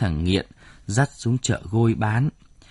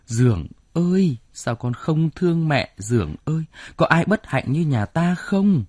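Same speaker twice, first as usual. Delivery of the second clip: mild mock wail, pitch climbing higher; wailing lament; 5 semitones higher than usual. Mother calls out to her wayward son, mildly wailing. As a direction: cry out for the lost son, lightly acted. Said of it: "gào lên khảm thiết".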